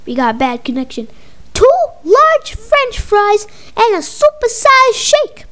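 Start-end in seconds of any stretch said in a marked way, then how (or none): 1.5-5.5 higher and slow, spelling out the order; slow repeat. Acted. Mama repeats order on a bad phone line, high and slow. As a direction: drag it out so the bad line catches it. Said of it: "I can't hear you good".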